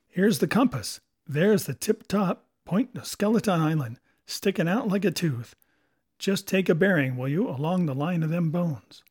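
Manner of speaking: commanding pirate; old pirate Silver. Acted. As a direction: order the men about like a pirate captain. Silver directs the men.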